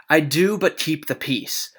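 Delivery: hushed, breathy plea for peace; whispered plea. Acted. Benvolio begs Tybalt to keep the peace, whispered. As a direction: whisper it, begging them to stop.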